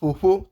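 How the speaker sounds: "fofo" with the Urhobo PH sound; correct pronunciation. Shown as a demonstration. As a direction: model "fofo" using PH in place of plain F. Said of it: "fofo, not fofo".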